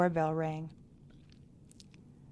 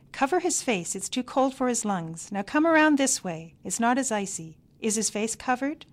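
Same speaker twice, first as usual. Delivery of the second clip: higher, louder crisp British commands; bossy grandmother bellowing; 5 semitones higher, 5 dB louder than usual. A narrator's reading. Miney orders the parents around on the icy path, bossy bellow. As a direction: bark orders like a bossy old matriarch. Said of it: "She bellowed her commands with a crisp British accent".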